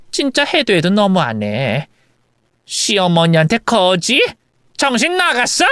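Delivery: lightly acted outrage, rising at the end; offended mother-in-law. Mother-in-law rebuking daughter-in-law, offended. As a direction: bristle at being called a beggar.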